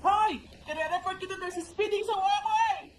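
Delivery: put-on drunk yelling.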